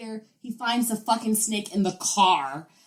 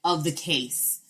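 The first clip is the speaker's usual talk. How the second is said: louder mock panic; imitated alarm; 3 dB louder than usual. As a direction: act out a boyfriend's alarmed discovery. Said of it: "he was like".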